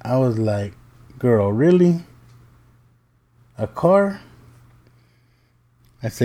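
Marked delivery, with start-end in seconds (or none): 1.2-4.2 high-pitched disbelieving question; incredulous. Retold or imitated. Dad reacting to daughter calling Cherokee a car, incredulous. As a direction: voice climbs in disbelief, pausing before the last question. Retold facepalm reply to daughter.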